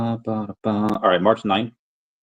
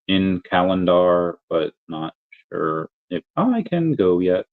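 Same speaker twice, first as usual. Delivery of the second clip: slow, even robot voice; slower than usual. Real, not acted. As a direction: drone it out like a robot. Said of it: "Why do I sound like a robot?".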